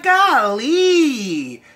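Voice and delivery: loud, high burst of shock; shocked exclamation. Retold or imitated. Reviewer reacting to the wife's confession, loud and shocked. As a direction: blurt it out stunned. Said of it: "I'm like".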